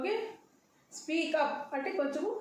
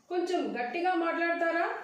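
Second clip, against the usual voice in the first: higher, questioning polite request; 4 semitones higher than usual. Shown as a demonstration. Teacher models asking a caller to speak up, politely. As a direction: ask respectfully, lifting the end. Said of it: "ఇర్రెస్పెక్ట్గా ఉంటుంది కాబట్టి".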